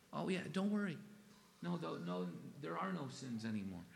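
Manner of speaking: lightly mocking dismissive voice; a touch of sarcastic reassurance; mocking the world. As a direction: scoff at the world's easy comfort. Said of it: "that's what the world is saying".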